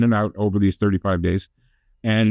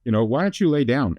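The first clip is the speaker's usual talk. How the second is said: lightly imitated kids, raised pitch; kids' concerned remark; 5 semitones higher than usual. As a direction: retell it higher, as the children. Father retells children's worried remark.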